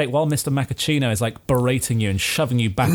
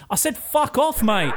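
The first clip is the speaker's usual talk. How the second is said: much higher, laughing mock yell; shoving yell; 10 semitones higher, slower than usual. Café owner shoving the intruder away, comic high yell. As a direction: shove him out with a comic shout. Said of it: "gives you a hearty shove and goes".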